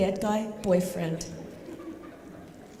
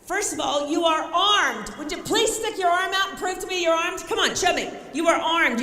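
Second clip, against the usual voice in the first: raised, punchy and loud; rallying; 5 semitones higher, 3 dB louder than usual. Acted. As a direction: pump up a frightened woman, insisting. Rallying the caller.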